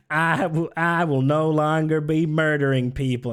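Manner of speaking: grand put-on politician's declaration; mock proclamation. Likening a politician's pledge to a confession, declaimed. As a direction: announce it like a solemn public pledge. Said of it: "it's like".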